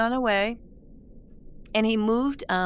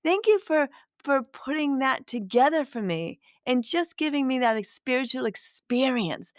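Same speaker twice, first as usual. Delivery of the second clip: voicing Spirit; 4 semitones higher than usual. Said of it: "a little chuckle from Spirit saying".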